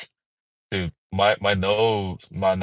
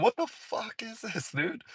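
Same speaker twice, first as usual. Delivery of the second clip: disgusted aside; 9 semitones higher, 9 dB quieter, slower than usual. Retold or imitated. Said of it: "I was like".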